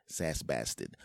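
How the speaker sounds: "bastard" with no R, as bas-tid; accented pronunciation. Shown as a demonstration. Host giving his hashtag, "bastard" as bas-tid. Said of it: "I say bastard".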